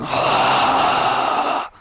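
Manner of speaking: long breathy gasp; crowd gasp. Acted. Crowd reacts to the champion pulling out, gasping. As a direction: imitate a whole crowd gasping.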